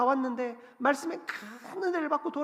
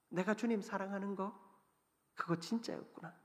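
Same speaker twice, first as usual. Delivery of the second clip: quiet realization; 2 semitones lower, 8 dB quieter than usual. Acted. Peter realizes truth.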